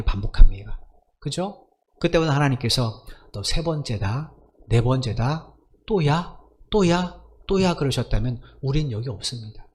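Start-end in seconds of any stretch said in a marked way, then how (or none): 3.3-7.8 mock fed-up counting, pitch rising on the repeats; imagined exasperation. God tallying our repeated sins, mock exasperated. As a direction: count off offences as if losing patience.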